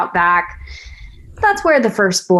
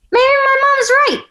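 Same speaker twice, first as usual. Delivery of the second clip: fighting back tears on the last words; close to tears. Acted. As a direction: voice cracking high as tears come. Admitting her mother may be right.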